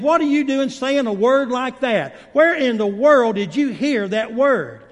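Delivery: joke-telling version of a cross teacher; mock scolding. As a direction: scold the child, playfully acted. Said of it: "she scolded him".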